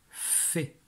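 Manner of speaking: "Fait" with a long, soft f; syllable dictation. Shown as a demonstration. Teacher dictates a syllable to the pupil, soft drawn-out "Fait". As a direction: dictate "Fait" softly, holding the f before the vowel.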